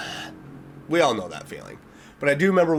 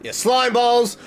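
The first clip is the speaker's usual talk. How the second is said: higher, louder jab at the company; mock outraged; 8 semitones higher, 4 dB louder, slower than usual. Real, not acted. Scolding the studio for the cover-up, mock outrage. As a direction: call them out, half joking.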